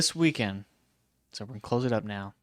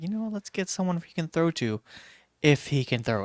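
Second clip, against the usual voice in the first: mocking front office voice; 6 semitones higher than usual.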